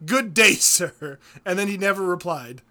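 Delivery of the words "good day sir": slow, drawn-out pompous good day sir; hammed-up stuffy farewell; mock haughty. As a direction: dismiss him grandly and slowly. Repeat of the haughty sign-off.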